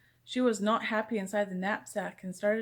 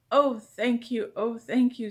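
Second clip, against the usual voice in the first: relieved thanks; 5 dB louder, slower than usual. Acted. Principal relieved gushing thanks.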